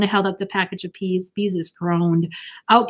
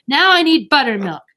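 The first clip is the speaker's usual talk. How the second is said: put-on young girl, raised and bright; eager girl voice; 6 semitones higher, 6 dB louder than usual. A narrator's reading. Ramona voiced mid-cooking.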